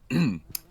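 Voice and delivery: deliberate throat clearing. Shown as a demonstration. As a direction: clear the throat before the announcement. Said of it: "clears throat".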